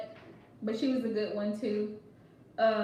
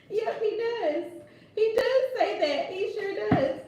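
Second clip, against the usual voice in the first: higher, louder, laughing through it; laughing agreement; 8 semitones higher, 4 dB louder than usual. Real, not acted. Host confirming Tyler says that, laughing.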